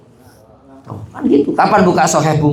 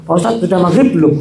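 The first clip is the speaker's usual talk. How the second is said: laughing while quoting; faster than usual. Retold or imitated. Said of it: "Begitu ngomongnya coba".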